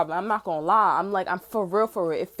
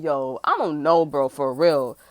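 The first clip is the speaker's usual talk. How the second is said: exasperated; 3 semitones lower, 6 dB louder, slower than usual. Retold or imitated. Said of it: "I'm like".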